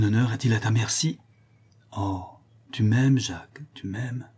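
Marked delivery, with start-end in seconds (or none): 2.7-3.6 a fond, wondering murmur; tender. Acted. Cécilie wonders at the notary's love, tenderly. 3.7-4.3 much softer, rising echo of tu m'aimes. Acted. Cécilie repeats to herself, almost breathless.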